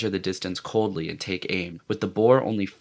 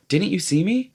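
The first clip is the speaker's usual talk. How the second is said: eager; 11 semitones higher than usual. Acted. Ralph seeking witnesses.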